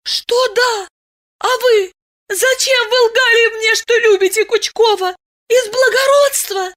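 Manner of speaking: put-on high, rising reproach of a hurt girl; indignant young girl. Masha reproaching Diana for lying, high indignant voice. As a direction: demand answers, hurt and indignant.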